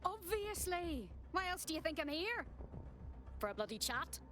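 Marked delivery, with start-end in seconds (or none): 0.1-2.4 exasperated retort. Acted. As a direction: throw the obvious back at them.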